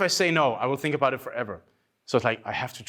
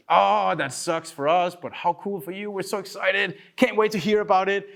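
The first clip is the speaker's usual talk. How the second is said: gushing teammates; 6 semitones higher than usual. Retold or imitated. Team cheering his plan.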